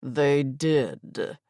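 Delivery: spoken through clenched teeth. A narrator's reading. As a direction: grit your teeth and push it out. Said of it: "speaking through clenched teeth".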